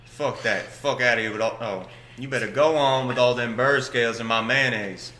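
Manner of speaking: hammed-up samurai character, indignant; disappointed samurai. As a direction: play a comically outraged old samurai. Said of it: "He's a samurai".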